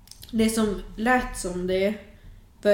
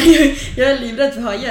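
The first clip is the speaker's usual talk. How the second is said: mock panic; 4 semitones higher, 9 dB louder than usual. Acted refusal to jump in.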